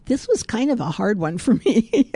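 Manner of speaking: chuckling through a confession; self-mocking giggle; laughing. Real, not acted. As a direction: laugh at yourself while admitting it. Amused confession before reading.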